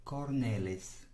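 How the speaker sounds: "Cornelis" said slowly, stress on the middle syllable; pronunciation demo. Shown as a demonstration. Teacher repeating a Dutch name after listening, slow pronunciation demo. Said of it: "going to try to pronounce this name".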